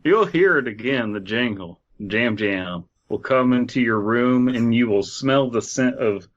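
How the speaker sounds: lightly eerie campfire reading; understated creepy narration; spooky story narration. Acted. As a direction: tell it like a ghost story. Reads the legend aloud.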